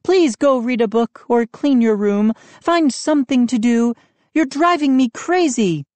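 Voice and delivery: high, exasperated order; mother exasperated with her son; impatient. A narrator's reading. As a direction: send him away impatiently. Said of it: "she said impatiently".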